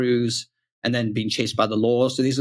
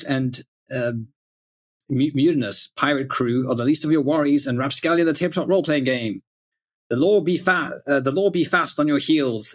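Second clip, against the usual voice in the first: lightly hammed-up pirate ad read; 3 semitones higher than usual. Shown as a demonstration. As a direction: read it like an old salty pirate, a touch dramatic. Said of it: "old English pirate voice here".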